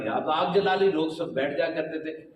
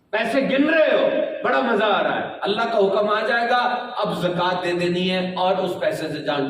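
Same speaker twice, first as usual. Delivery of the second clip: louder preaching with a repeated refrain; 3 dB louder than usual. Acted. Preacher warns the listeners that God's command will come, louder preaching. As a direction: drive the refrain home to the crowd.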